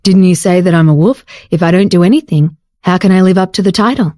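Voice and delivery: lightly smug male voice; righteously. Acted. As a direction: tease her with fake virtue. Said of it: "said righteously".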